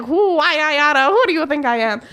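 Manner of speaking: half-joking indignant sputter; mock indignant. Mock indignant at the mechanic who doubted her. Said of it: "I wanted to reach through the phone".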